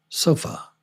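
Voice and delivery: "sofa" whispered, ending in a weak uh. Shown as a demonstration. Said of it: "here it is on the end".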